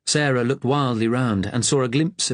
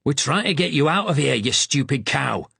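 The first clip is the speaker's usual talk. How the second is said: raised Yorkshire voice, exasperated, slowing on the insult; angry Yorkshire shout; 4 semitones higher than usual. Acted. Yorkshire lad hauls Sarah to safety, shouting angrily. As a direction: snap at her to stop fighting, Yorkshire. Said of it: "an angry Yorkshire voice shouted".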